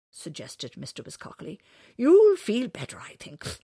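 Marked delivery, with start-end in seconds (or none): 2.0-3.6 loud high start, dropping away; animal character. Acted. Wiscockley encourages Winters, loud creature voice. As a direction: exclaim it as a lively animal, then ease off.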